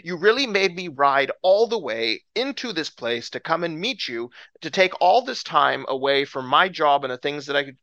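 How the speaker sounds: acted indignant complaint; exasperated mock tirade; insulted Naaman. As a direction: argue back, affronted and incredulous. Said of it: "he's so insulted".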